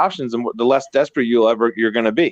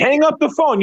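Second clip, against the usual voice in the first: higher, firm "Hang up the phone"; emphatic command; 12 semitones higher than usual. Acted. Urging a fed-up worker to end the call, emphatic. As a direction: punch it out like a decision. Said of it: "you're sick of somebody's shit".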